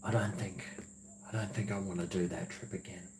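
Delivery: very soft, low-energy quote; retold reluctance. Recalling the rough trip to companion, reluctant and hushed. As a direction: say it small and quiet, backing out. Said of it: "I was like".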